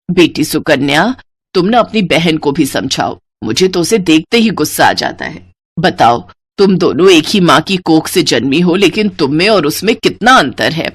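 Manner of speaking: mother-in-law. Acted. Sarla complains about sister.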